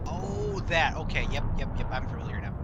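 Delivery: loud, high oh of realisation; suddenly gets it, loud and bright; surprised recognition. Real, not acted. Sudden recognition of the game show.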